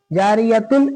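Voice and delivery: जारियतुन keeping its final t and n; wrong stop with -tun. Shown as a demonstration. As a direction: sound the full tun at the end of जारियतुन. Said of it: "ऐसे नहीं पढ़ेंगे". (जारियतुन, तुन के साथ)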